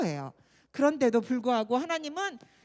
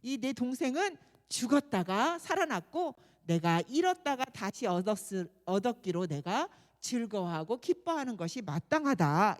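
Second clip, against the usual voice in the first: tender father; 5 semitones lower than usual. Acted. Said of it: "너무 불쌍하게 생각하면서".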